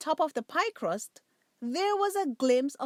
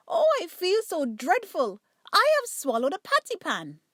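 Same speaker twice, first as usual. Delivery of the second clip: louder, higher whining complaint; moaning and whining; 6 semitones higher, 5 dB louder than usual. Acted. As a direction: moan it out like a sick cat. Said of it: "Duchess moaned and whined".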